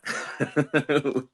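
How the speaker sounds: short amused laugh; real laugh. Real, not acted. Laughs at his own joke.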